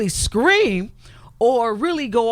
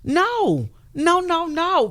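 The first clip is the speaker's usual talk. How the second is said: emphatic no; 10 semitones higher, much slower than usual. Real, not acted. Guest stresses losing control of her life, high emphatic no. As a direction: shut it down, no no no. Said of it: "emphatic denial".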